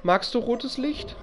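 high, slow eerie granny croon; spooky granny singsong; creepy granny voice. Pretend. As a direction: coax sweetly like a sinister grandma. Imitating creepy grandma luring.

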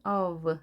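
long vowel in "of", then a weak V; weakened F as V. Shown as a demonstration. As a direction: soften the final F of "of" into a V. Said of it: "이렇게 약하게 발음이 됩니다".

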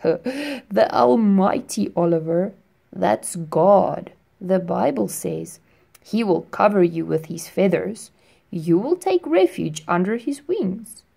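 put-on firefly greeting the boy at his window; friendly firefly. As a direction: greet him like a gentle old friend. Firefly explains.

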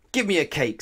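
high, loud cross demand; snapped. A narrator's reading. Mister Grumpy ordering at the cake shop, snapping. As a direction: snap the order rudely. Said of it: "snapped Mister Grumpy".

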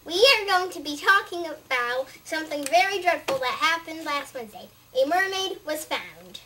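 lightly played TV news anchor; tabloid tv host. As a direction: announce it like a hammy news host. Kid plays news anchor.

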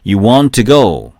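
"want to" linked with a single t; first t dropped. Shown as a demonstration. Teacher shows natural linking, "want to" with one t sound. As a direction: merge "want to" into wan-tu. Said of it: "앞에 발음이 소리가 안 난다".

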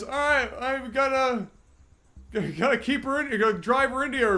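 high-pitched Newfoundland impression; Newfie accent. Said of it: "as well as that accent".

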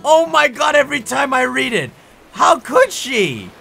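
loud, high, slow outrage; furious disbelief; outraged rant. Real, not acted. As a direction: let the fury build. Ranting about the rude note.

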